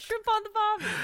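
quick mock Australian; tossed-off Aussie twang; a bit of a jokey Aussie accent. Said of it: "What the fuck did I just say that?".

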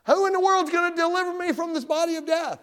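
very high, loud desperate plea; Paul's desperate cry. Acted. Preacher voices Paul begging for deliverance, desperate cry. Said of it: "Don't you feel like that sometimes?".

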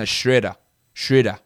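Schroeder with the vowel pitched between "oh" and "oo"; German-ish Schroeder. Shown as a demonstration. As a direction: say Schroeder with a vowel in between, not quite English. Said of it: "It's, like, in between".

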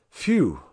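a short breathy whistle of alarm; whistling phew. A narrator's reading. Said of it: "whistled the skipper".

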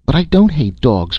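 put-on high, hurt boy's protest; vehement indignant cry. A narrator's reading. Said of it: "cried the boy vehemently, his voice breaking with indignant resentment".

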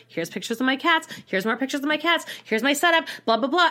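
lightly hammed-up eager texter; mock eager guy. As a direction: parrot his cat spam with mock cheer. Mocking Randall's cat pictures.

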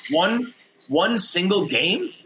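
drawn-out, slow and dreamy; slow wistful musing. Retold or imitated. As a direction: linger on each word like a poet. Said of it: "quizzically saying it".

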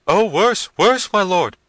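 very high, loud wail; frightened cry. A narrator's reading. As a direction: cry it out in panic to your master. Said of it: "cried Diego".

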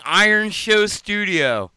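slow, careful toothless speech; spelling it out without front teeth; missing front teeth. Real, not acted. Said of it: "that was hard to say without teeth".

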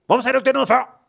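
high laughing squeal; excited fan. Retold or imitated. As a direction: laugh it out, thrilled and reproachful. Fangirling friend.

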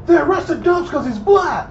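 high, slow, loud imitated holler; screaming out loud. Imitating his buddy telling everybody about the arrest, screaming. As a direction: holler it out to a whole crowd. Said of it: "is screaming out loud to everybody".

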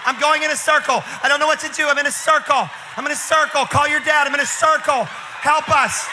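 put-on panicked white girls. Scared teen girl shrieking at the pranksters in the dark. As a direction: shriek in a panic, running in circles. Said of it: "they're like".

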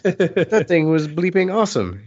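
hammed-up fan gushing over the sign; mock enthusiastic rave; imitating enthusiasm. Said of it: "he was very enthusiastic".

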